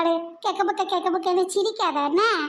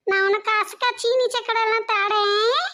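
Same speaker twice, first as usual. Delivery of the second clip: mock frightened whimper, pitched up; pretend scared crying; 2 semitones higher, slower than usual. Child begs her frozen father to speak, mock-crying. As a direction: fake a scared little sob, begging him to talk.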